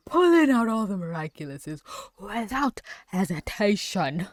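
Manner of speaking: words riding on a laugh; laughing through words. Real, not acted. Describing the villain's greed while still giggling. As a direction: talk through leftover giggles. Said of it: "can't stop laughing".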